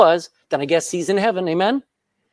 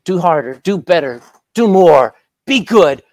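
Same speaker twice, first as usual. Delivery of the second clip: louder, pushing demands; religion piling on demands, getting louder; demanding religion; 5 dB louder than usual. Retold or imitated. Preacher voicing religion's demands, louder. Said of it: "religion says".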